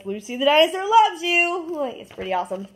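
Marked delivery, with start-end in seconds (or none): 0.1-1.7 toy voice line. Retold or imitated. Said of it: "plush that says".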